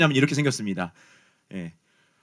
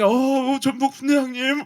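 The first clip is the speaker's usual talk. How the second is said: higher, faint voice of a collapsing recruit; feeble recruit voice; 8 semitones higher than usual. Retold or imitated. Exhausted youngest private calling his squad leader, faint and higher. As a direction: gasp it out like you're about to drop.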